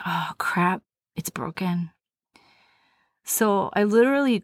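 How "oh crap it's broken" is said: hushed, dropping to a whisper; dismayed whisper. Retold or imitated. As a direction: say it under your breath, dismayed. Realizing her ankle is broken.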